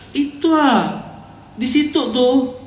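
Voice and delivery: high-pitched, earnest sleep-talking; sleep-talker. Acted. Preacher imitating someone talking in their sleep, high and insistent. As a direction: act out a sleeper insisting something is really there. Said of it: "Dia ngomong kayak benar gitu".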